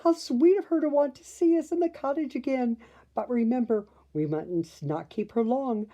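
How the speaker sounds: high, fast, breathless gushing; fluttering. A narrator's reading. Flora delighted at the visit, fast high fluttering. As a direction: rush the words out, all aflutter. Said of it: "she fluttered".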